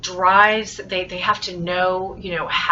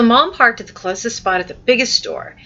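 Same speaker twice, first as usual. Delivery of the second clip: louder, higher, lively story reading; with some emotion; 4 semitones higher, 6 dB louder than usual. Shown as a demonstration. Teacher rereads the story's statement, with some emotion. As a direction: read it out with building interest. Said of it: "I did give it some emotion".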